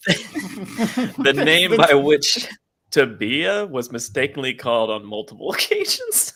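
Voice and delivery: slow dramatic reading. Acted.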